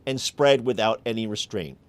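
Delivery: emphatic presenter read, key words punched; deliberate phrasing with weighty pauses; scripted commentary read. Acted. Host lays out Yemen's war to listeners, scripted commentary read. Scripted opening monologue and guest introduction.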